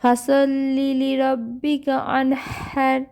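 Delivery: slow, drawn-out melodic recitation; tajweed recitation; Quran recitation. Shown as a demonstration. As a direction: chant each word long and even. Recites verse.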